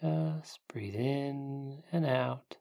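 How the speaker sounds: slow soft whisper. Acted. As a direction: breathe the words out in a whisper. Whispered breathing cue in meditation.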